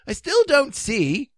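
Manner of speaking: high, slow, plaintive king; a touch of mournful puzzlement; sad. A narrator's reading. King puzzled by the costume, sadly plaintive. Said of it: "said the king sadly".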